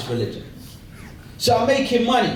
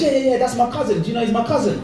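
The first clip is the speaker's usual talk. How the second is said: put-on boyish boasting; 4 semitones higher, faster than usual. Boy boasting to his friends.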